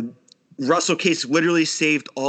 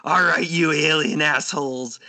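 Russell Case quote; 4 semitones higher, slower than usual. Retold or imitated. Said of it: "I'm gonna give you two quotes".

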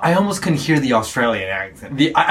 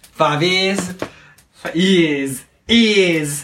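imitated Australian accent; 2 semitones higher, much slower than usual. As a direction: echo "years" in a lightly copied Australian accent. Echoing the guest's accented years.

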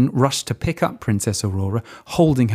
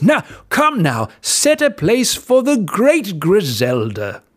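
high, slow nervous royal voice; a rattled king hurrying servants; flustered king; 9 semitones higher, 4 dB louder, slower than usual. Acted. King orders a place set.

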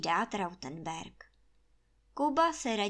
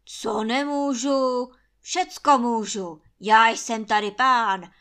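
threatening roar; 10 dB louder than usual. A narrator's reading. Trautenberg threatening gamekeeper, roaring in fury. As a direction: roar it like a tyrant lord. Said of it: "hrozí Trautenberg".

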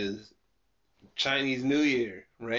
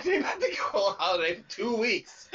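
laughing; faster than usual. Retold or imitated. Voicing supplier notice, laughing.

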